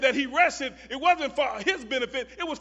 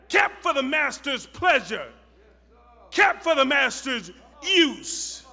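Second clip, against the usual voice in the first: louder, climbing sermon with drawn-out words; fervent preaching; 6 dB louder than usual. Acted. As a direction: build the fire toward the climax. Sermon rises to fervor.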